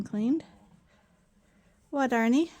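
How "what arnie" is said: raised call across the barn. Real, not acted. Farmer calling across the barn to Arnie, raised voice. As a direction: call out to Arnie, a bit higher and louder.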